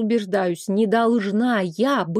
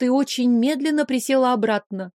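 plain reading voice

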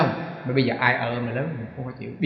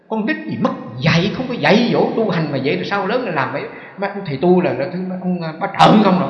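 mock scolding; 4 semitones higher, 5 dB louder than usual. Quoting angry man scolding novices.

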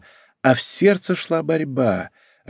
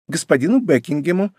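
courtly cheer; 6 semitones higher than usual. A narrator's reading. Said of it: "с придворной весёлостью".

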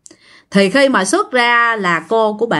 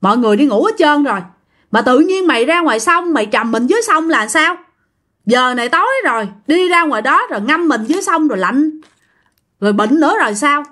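scolding grandma; 2 semitones higher than usual. Retold or imitated. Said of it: "bà nội mới la".

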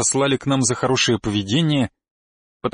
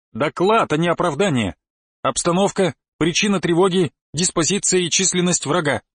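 steely commanding; 3 semitones higher than usual. Acted. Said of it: "добавил я в голос Стали".

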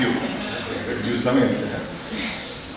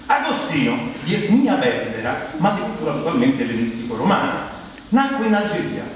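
biography reading. Acted. Reads out a biography to audience.

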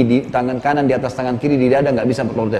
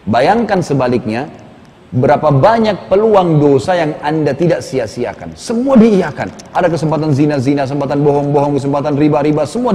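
stern exhortation. Retold or imitated. Preacher confronting mock corpse with his sins, stern exhortation. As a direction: draw out the reproach, rising at the end.

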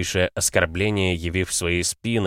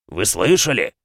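booming; 2 semitones higher, 4 dB louder than usual. Acted. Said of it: "загремел рыцарь".

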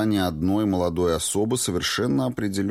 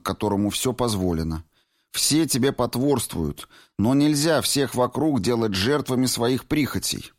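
put-on higher young woman's voice, lightly teasing reproach; 6 semitones higher than usual. A narrator's reading. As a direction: Valentina scolding her old friend Clifford, higher and reproachful. Valentina softer tone.

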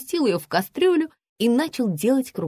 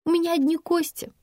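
plaintive squeak; 9 semitones higher than usual. A narrator's reading. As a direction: squeak it out pitifully, much higher. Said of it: "жалобно пискнула я".

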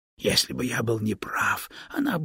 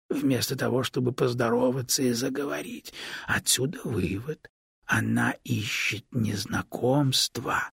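plain reading voice

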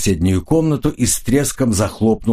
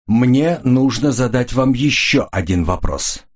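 slow, every word spaced and set; clipped out; 4 semitones higher than usual. A narrator's reading. Jeanne turns to Koridon, spacing each word out. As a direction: measure out each word deliberately. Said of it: "отчеканила Жанна".

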